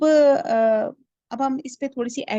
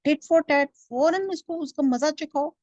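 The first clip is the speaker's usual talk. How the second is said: higher, louder goading tempter; a devil urging revenge, louder and higher; Satan's whisper voiced; 5 semitones higher, 4 dB louder than usual. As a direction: egg him on to take revenge. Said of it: "شیطان اس کو پٹی پڑھا رہا ہے کہ".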